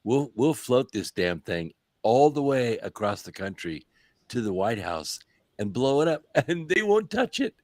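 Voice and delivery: smug dictator voice, rising high; President Xi. Retold or imitated. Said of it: "I'm President Xi, and I'm going".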